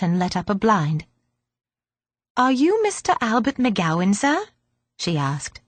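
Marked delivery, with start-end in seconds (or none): 2.4-4.5 put-on girl voice. Girl asks politely.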